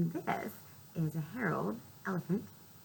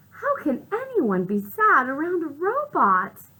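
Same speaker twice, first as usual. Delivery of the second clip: Piggy; 8 semitones higher, 11 dB louder than usual. Acted. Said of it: "Piggy says".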